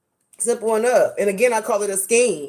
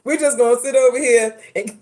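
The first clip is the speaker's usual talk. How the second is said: indignant; 6 semitones higher, 4 dB louder than usual. Retold or imitated. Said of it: "I said".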